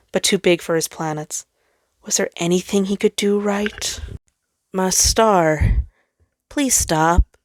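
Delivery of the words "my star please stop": pleading. Acted. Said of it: "Jupiter pleaded".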